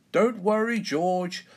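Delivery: high, emphatic comforting call; hearty reassurance. A narrator's reading. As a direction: call up to a frightened little one to reassure him. Dad reassuring crying child.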